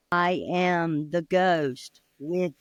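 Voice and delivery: lightly voiced low ghost; a hint of spooky moaning.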